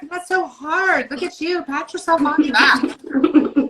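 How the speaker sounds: lightly mock the ego's praise; spiritual ego voice. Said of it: "that spiritual ego will be like".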